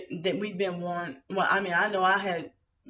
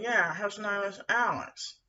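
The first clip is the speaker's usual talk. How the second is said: imitating him; slower than usual. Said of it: "that's exactly how they said it".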